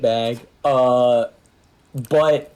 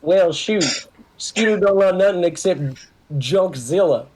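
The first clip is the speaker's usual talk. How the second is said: raised-pitch Southern redneck voice; redneck character voice; 4 semitones higher than usual. Acted. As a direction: play a folksy redneck talking about himself. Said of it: "more of a redneck voice".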